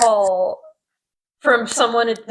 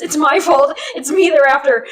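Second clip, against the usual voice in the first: mock distress; 5 semitones higher, 3 dB louder than usual. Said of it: "with well-acted distress".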